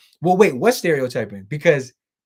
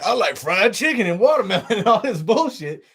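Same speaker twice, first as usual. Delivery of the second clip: raised, louder mock stereotype voice with a laugh; racist impression; 6 semitones higher, 4 dB louder than usual. Streamer giving an example of a racist impression, mock voice. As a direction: ham up an offensive caricature, laughing. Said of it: "Now, if he's like".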